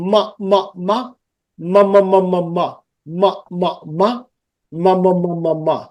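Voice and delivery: "ma" repeated, singly then in a run; nasal M drill. Shown as a demonstration. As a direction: sound out "ma" with the M through the nose. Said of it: "সাউন্ডটা নাক দিয়ে বেরোচ্ছে".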